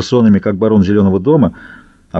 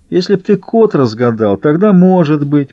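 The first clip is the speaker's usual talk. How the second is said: scornful put-down, slightly raised and drawn out; contemptuous; 4 semitones higher than usual. A narrator's reading. Трубка scoffs at a rival for the bookkeeper job, contemptuous. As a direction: answer with lofty scorn. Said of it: "презрительно ответил Трубка".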